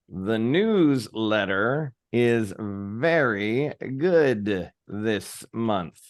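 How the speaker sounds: slow, even read of the line; slow model read. Shown as a demonstration. Facilitator reading the sample line, slow. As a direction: lay the line out slowly for the group. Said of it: "the line is".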